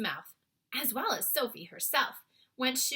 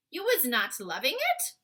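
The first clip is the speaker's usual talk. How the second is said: innocently; 6 semitones higher, 7 dB louder than usual. A narrator's reading. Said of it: "the B F G asked innocently".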